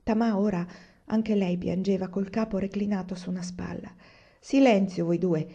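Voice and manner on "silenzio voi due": mild scolding. Acted. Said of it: "li rimproverò Aiwan".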